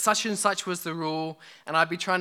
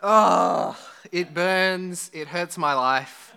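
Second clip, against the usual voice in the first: mock agony; 4 dB louder, much slower than usual.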